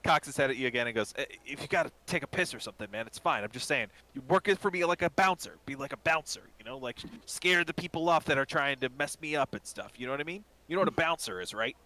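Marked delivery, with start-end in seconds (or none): 1.2-11.8 lightly voiced rambling explanation; exasperated, friendly shopkeeper. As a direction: keep checking that he follows. Shopkeep explains bouncer job.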